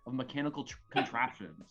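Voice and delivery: grand, animated storyteller reading; dramatic story narration. Acted. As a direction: narrate a mock-epic battle tale. Reads battle narration.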